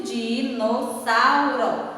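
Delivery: "Dinossauro" slowly drawn out in syllables; slow dictation of "Dinossauro", syllables set apart. Shown as a demonstration. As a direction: stretch each syllable of "Dinossauro". Teacher sounds out word for pupils.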